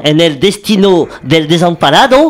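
Spanish line in a French speaker's accent; lightly put-on Spanish accent; attempted Spanish accent. Shown as a demonstration. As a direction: show off your Spanish accent. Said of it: "regardez mon accent".

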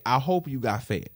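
mock gracious. Real, not acted. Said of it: "the grace in me is saying".

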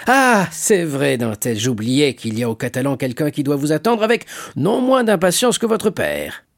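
lively, rising shipowner voice; hearty shipowner, remembering. Acted. Shipowner suddenly recalls who awaits the young sailor, lively.

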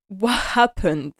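slow, drawn-out mock call; retold worried call, stretched out; imitated calling after. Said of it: "him calling after her".

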